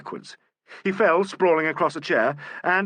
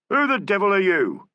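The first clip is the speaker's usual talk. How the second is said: sudden loud bawl, higher; Bailey bawling at the stranger above; 6 semitones higher, 4 dB louder than usual. A narrator's reading. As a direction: bark the question upward. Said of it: "bawled Bailey suddenly".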